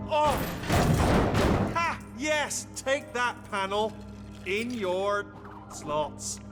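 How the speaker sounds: high, loud victory cheer; triumphant. Acted. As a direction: gloat over the beaten panel. Triumph after hacking the panel.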